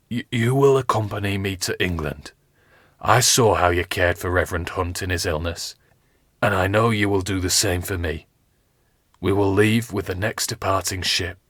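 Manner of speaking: gather strength and speak firmly; wounded captain. Acted. Captain Smith telling his page and Richard, lightly voiced weary firmness.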